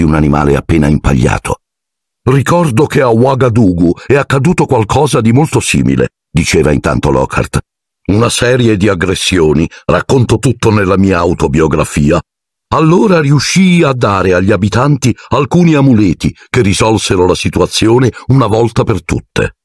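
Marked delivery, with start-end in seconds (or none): 2.2-6.1 high, airy show-off voice; pompous celebrity wizard; boastful Lockhart. Acted. 8.1-19.5 high, airy show-off voice; pompous celebrity wizard; boastful Lockhart. Acted.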